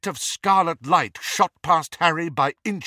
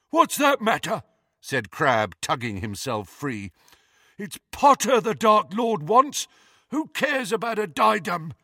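rough and scornful; 7 semitones higher than usual. A narrator's reading. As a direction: brush him off scornfully. Crabbe arguing roughly.

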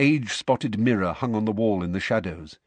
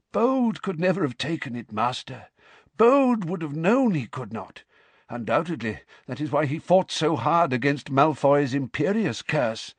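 nervous servant; 5 semitones higher than usual. Acted. Servant explains to master.

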